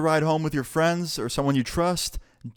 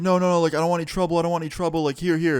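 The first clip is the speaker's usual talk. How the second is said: higher, mock-panicked backing down; imitated scared pleading; 5 semitones higher, faster than usual. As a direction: plead your way out, lightly acted. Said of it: "You can tell he was really scared".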